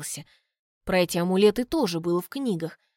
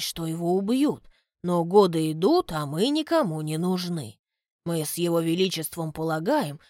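butler Graham; 3 semitones lower than usual. Acted. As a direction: reason it out calmly.

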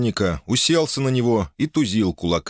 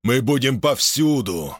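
booming; 4 semitones higher, slower than usual. Acted. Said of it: "громогласно изрёк Кацулас".

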